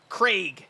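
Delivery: "Craig" drawn out with a mocking fall. Shown as a demonstration. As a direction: spit out "Craig" like an insult. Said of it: "if you wanna say it like that".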